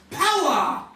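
loud, high preacher's shout; acted alarm, voice thrown high; frightened cry. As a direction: cry out for help from the pulpit. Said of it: "Frightened, I cried out".

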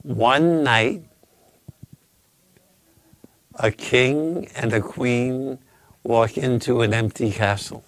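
slow and deliberate, with long pauses between phrases; slow retelling. Shown as a demonstration. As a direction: spell out the riddle slowly, phrase by phrase. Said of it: "Okay, I'll do it slowly".

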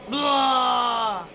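long, forceful "blah" cry; drawn-out yell. Real, not acted. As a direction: let out one sustained blurt. Yelling while ramming a rival.

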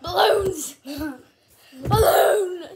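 excited laughing shout. Real, not acted. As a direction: squeal the word while laughing. Chasing balloons, laughing.

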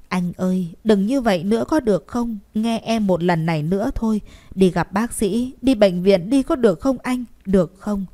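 a tearful, pleading request; begging. Acted. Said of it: "nói như van xin nài nỉ". (giọng van xin nài nỉ)

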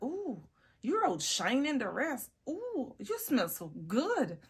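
high, swooping compliment; admiring cooing. Retold or imitated. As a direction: coo at it admiringly, drawing out the praise. Retold compliment to the perfume.

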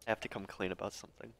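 very soft, hushed confession; whispered confession. Acted. Player's character coming clean about blackmail to Wraith, whispering. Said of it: "I whisper to him".

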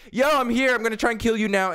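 high-pitched, over-keen mimicry; mock eager teammate. Gamer mocking teammates who rush the defuse, over-eager. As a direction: imitate a teammate barging in excitedly.

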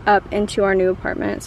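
panting between words; winded from hauling boxes; out of breath. Real, not acted. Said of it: "Sorry, I'm so out of breath".

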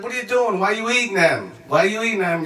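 mock-incredulous telling-off; retold scolding. Traveler warning his friend off the tacos, scolding.

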